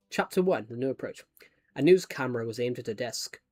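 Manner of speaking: reading a novel aloud; measured book-reading voice; story narration. A narrator's reading. Reads own novel aloud.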